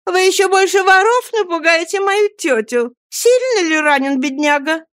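put-on young lady asking about the wounded boy, gently; gentle young lady. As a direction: ask kindly in a girl's voice. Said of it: "как нежен был её голос".

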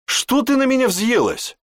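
very high, cackling mockery; mock her with a cackle; guffawing jibe. A narrator's reading. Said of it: "гоготнул Гант". (насмешливо, с гоготом)

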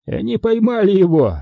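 high, triumphant exclamation; gleeful announcement. A narrator's reading. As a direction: announce the catch exultantly. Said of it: "сказал он и улыбнулся". (торжествующе, высоким голосом)

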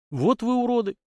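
high disgusted spit of a line; spat in anger. Acted. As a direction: curse them from the gut. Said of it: "в сердцах сплюнул я".

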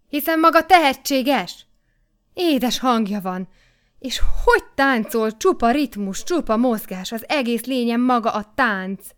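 loud, high, jubilant exclaiming; jubilant shout. A narrator's reading. The editor shouting his delight at the singer Kata. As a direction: burst out in delighted praise. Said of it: "olyan ujjongó hangon ... kiáltotta".

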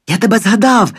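high, loud cry of recognition; joyful shout. A narrator's reading. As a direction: call out to him with sudden joy. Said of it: "радісно кричу йому".

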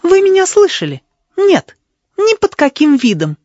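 high, loud angry refusal. Acted. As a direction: cut him off in anger. Sheila refuses angrily.

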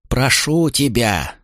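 slow, stretched-out plea; pleading. A narrator's reading. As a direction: beg with hands clasped. Traitor begs with clasped hands.

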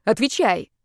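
sharp angry demand; growled order. A narrator's reading. Heroine threatening him with a pan, growled order. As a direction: demand an answer now. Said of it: "прорычала я".

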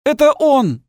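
very high, loud frantic yell; shout. A narrator's reading. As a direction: scream it out, pointing him out. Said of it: "продолжал кричать мужчина".

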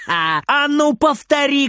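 high, slow threatening cry; angry shout. Acted. Grandma shouts at her grandson, brandishing a spoon. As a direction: dare him to say it again. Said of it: "кричит бабушка, гневно".

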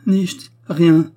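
high, loud, vehement outburst; violent refusal. A narrator's reading. Weeping widow rebuffing her hostess, violent. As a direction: push her away with the words. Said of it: "fit l'autre violemment".

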